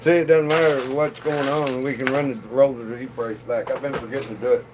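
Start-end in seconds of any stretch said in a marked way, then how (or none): 1.8-4.7 talking around a cigarette; words through a cigarette; cigarette in mouth. Real, not acted. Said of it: "I'm trying to talk with a cigarette in my mouth".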